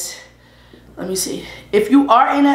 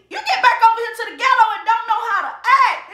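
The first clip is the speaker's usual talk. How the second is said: laughing; 13 semitones higher, faster than usual. Real, not acted. Teasing Ashley, laughing.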